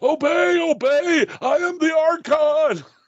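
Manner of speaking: very high, slow mock yell in a hamming child voice.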